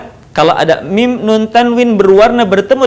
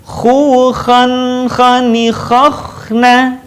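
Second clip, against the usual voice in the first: chanted "Khu, khan" with a held n; swing and hold; 3 semitones higher, much slower than usual. Shown as a demonstration. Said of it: "ayu-ayun mana tahan". ("khan" ditahan, "khakhna" mengalir)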